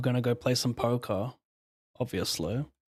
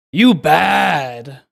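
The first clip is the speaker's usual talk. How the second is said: put-on loud, slow African American accent; 3 semitones higher, 11 dB louder, much slower than usual. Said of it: "that was my black voice".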